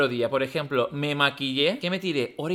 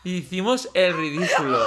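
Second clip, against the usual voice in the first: laughing. Real, not acted. Laughing at own failure.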